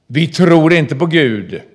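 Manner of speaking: lightly voiced psychologist, rising to insistence; quoted psychologist. A psychologist telling inmates, loud and urgent.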